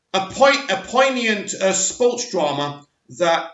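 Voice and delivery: slow, halting read, losing the place; hesitant, lost mid-sentence; stumbling read. Real, not acted. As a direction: trip over the words and trail off. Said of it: "hang on, right, where are we?".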